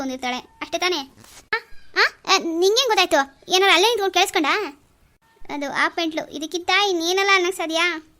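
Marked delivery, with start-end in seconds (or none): 1.5-4.5 startled surprise. Acted. Man startled by friend's guess.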